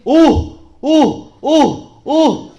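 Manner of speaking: repeated oh of amazement; surprised oh. Acted. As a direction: Philip showing children his surprise, exclaiming. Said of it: "깜짝 놀랐어".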